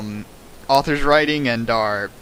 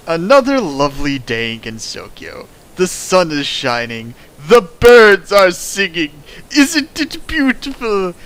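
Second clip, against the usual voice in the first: mock cheerful narrator; 3 semitones higher, 5 dB louder than usual. Mock idyllic fanfic reading.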